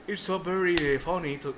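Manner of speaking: slow put-on British accent; acento inglés de Inglaterra. Shown as a demonstration. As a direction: badly attempt an English accent, slowly. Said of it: "imitar el acento inglés de Inglaterra". (intento lento de acento británico)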